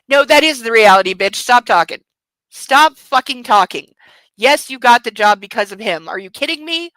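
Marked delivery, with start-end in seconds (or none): 0.1-3.9 loud exasperated yell at the book; loud fed-up rant; angry outburst. Real, not acted. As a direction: snap at her to shut up. Yelling at character on page.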